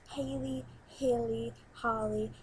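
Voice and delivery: Haley said in a light American accent, rhotic Holly; name run through in a casual American accent; Haley and Holly with American vowels. Shown as a demonstration. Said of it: "I got my American accent out".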